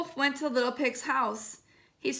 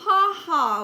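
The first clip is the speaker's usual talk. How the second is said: mock laugh; 5 semitones higher, 6 dB louder than usual. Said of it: "laughed the pig".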